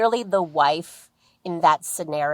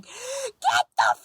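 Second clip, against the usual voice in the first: much lower, slow demonic roar; 11 semitones lower, much slower than usual. Retold or imitated. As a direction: let a possessed growl rip from deep down. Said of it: "this demonic voice comes out".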